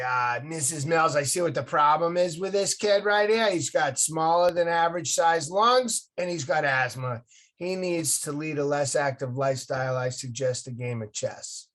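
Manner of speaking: imitating an old doctor's nasal Massachusetts accent; a light sketch of a Massachusetts doctor, nasal twang. Old doctor telling mom about the boy's asthma, mild nasal Massachusetts accent. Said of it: "he talked in this nasally Massachusetts accent".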